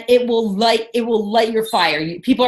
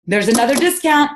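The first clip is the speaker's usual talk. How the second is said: higher, hammed-up salesy pitch; pushy bugging; 5 semitones higher than usual. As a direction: pester them with deal after deal. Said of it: "just bugging people".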